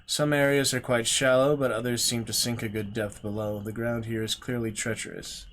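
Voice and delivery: measured storyteller read, calm; gamebook narration. A narrator's reading. Streamer reading the gamebook aloud, steady storyteller voice. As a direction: read the marsh scene to viewers.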